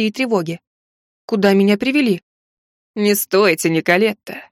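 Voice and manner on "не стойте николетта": purring. Acted. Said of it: "Едва не мурлыкнул мне на ухо Брайан".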